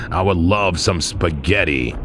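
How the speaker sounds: slow, smooth mock sweet talk to his girlfriend. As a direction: lay on the charm slowly, half joking. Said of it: "I talk like this all the time to my girlfriend".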